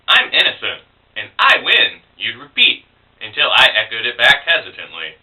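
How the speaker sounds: poem read with lifted, swinging pitch; poetry recital. Acted. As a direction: recite your sonnet about an ex, phrase by phrase. Reads own ex sonnet.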